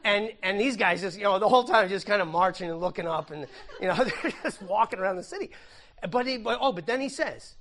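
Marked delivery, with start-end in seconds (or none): 1.2-5.5 laughing while describing the march. Real, not acted. Pastor amused by marching soldiers, laughing. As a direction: giggle through it, a bit quicker.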